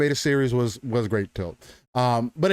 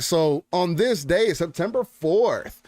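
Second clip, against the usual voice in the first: studio announcer; 4 semitones higher than usual. Shown as a demonstration. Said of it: "as I sound like a studio announcer".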